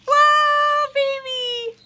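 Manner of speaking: high, loud delighted whoa; excited whoa. Real, not acted. Owner watching parrot dance, high delighted whoa. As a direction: gasp with delight.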